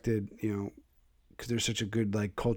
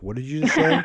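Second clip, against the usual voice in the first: disgusted sister; 5 semitones higher, 6 dB louder than usual. Retold or imitated. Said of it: "the most disgusted look on her face".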